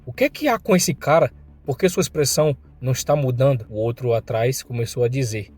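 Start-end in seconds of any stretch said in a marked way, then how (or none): 0.0-3.7 angry outburst. Acted. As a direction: snap at the blank-faced man. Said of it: "E ele, com raiva".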